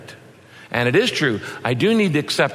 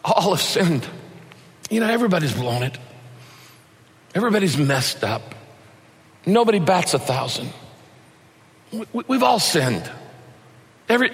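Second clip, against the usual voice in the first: understated, heavy-hearted admission with long pauses; brokenhearted, matter-of-fact. Shown as a demonstration. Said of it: "he'd say it with a broken heart".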